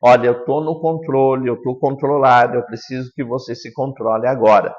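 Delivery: put-on controlled, even instruction to a child; a touch of firm composure; steady adult taking charge. Shown as a demonstration. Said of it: "da entonação da voz".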